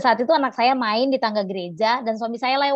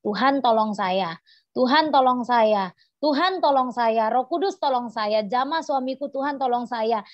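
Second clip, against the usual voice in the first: retold prayer. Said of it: "saya hanya berdoa sepanjang jalan".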